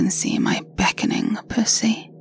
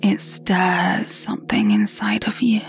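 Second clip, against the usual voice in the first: right in your ear. Acted. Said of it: "the sound of my voice in your ears".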